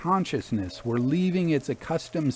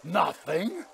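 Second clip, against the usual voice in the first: higher, sharply rising question; incredulous; 5 semitones higher than usual. A narrator's reading. Father hears son has nothing, incredulous. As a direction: echo it in disbelief.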